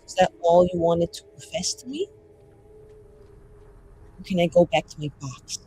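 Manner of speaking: soft, measured mage speech; restrained defiance. Acted. Mage telling off someone over who decides their fate, quietly defiant. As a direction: keep the defiance low and contained. Player repeats mage's bitter speech.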